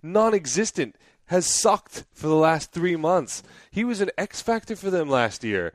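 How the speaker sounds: high-pitched mock Italian rant; weird Italian accent. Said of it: "in his weird Italian accent".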